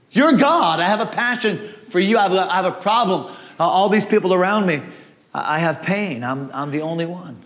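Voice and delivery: a grieving prophet alone; lamenting Elijah. Acted. Elijah's lament, drops lower.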